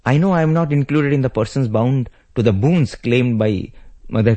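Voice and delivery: mildly insistent, pitch lifted on key words. Acted. Devoted brother insisting he follow Rama to the forest, insistent. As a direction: press the point with firm conviction.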